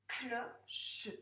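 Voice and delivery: "Cloche" in two beats, clo-che, final e sounded; split into syllables. Shown as a demonstration. Teacher tapping syllables for a pupil, "Cloche" split clo-che. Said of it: "dans quelle syllabe on entend bien".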